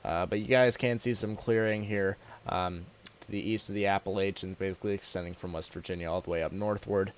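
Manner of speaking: talking through a sore throat. Real, not acted. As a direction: go easy on a sore, scratchy throat. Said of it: "I am nursing a sore throat".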